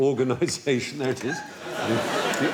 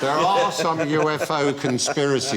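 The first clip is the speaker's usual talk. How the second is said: conspiracy theorist voice. Acted. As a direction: lightly play a UFO believer sharing secrets. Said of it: "Why are you talking like this?".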